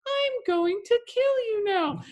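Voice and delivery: sing-song menace of a talking doll; a doll slowly promising murder, high and creepy. Pretend. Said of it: "if he talked like a doll".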